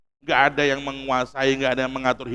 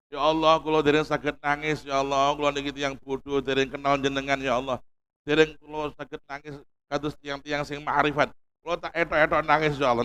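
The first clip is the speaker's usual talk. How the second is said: soft, pleading prayer in Javanese, much quieter; humble hushed prayer; 2 semitones lower, 6 dB quieter than usual. Shown as a demonstration. Preacher acts out a humble prayer to Allah, hushed and pleading. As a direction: pray softly like a servant who cannot cry. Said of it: "Tapi kalau berpura-pura kepada Allah bagus".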